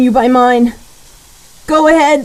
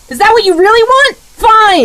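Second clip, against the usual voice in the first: fast, higher, furious challenge; angry shout; 5 semitones higher than usual. Acted. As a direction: fling it at him in despair. Robin snaps at attacking Batman.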